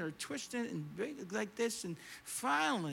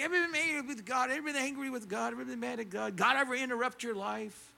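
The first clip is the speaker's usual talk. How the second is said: higher-pitched, quick run of sermon questions; retold preaching; 4 semitones higher, faster than usual. Preacher pressing on with his sermon despite the interruption, hurried retold preaching. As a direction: hurry back into the sermon, repeating the question. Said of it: "I'm back to preaching".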